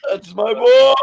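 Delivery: high mock scream, swelling on "boy". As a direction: bellow it like an overwrought movie father. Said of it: "Cecil starts screaming in his face".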